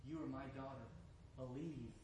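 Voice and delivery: low, softened voice of a loving God; tender reassurance. Acted. God offers sinners a free gift, tenderly reassuring. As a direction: offer grace gently, letting the pitch sink.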